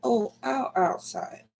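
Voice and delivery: a soft high moan. A narrator's reading. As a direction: moan it out in pain. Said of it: "She moaned".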